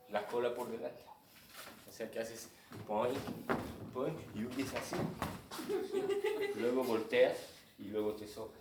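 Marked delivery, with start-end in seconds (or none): 1.9-5.0 springy "poing, poing" sound effect; dog-like boing. Shown as a demonstration. Teacher demoing the hip-first flee with a playful boing. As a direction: bounce the sounds like a puppy's tail. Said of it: "es como los perritos".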